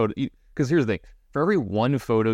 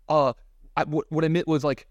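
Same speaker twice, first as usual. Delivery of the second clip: higher, stammering mock recovery; flustered backpedal; 7 semitones higher than usual. Player backpedals to the man he just insulted, mock flustered. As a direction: imitate someone aghast, scrambling to take it back. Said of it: "he was so distraught and, like, aghast at himself".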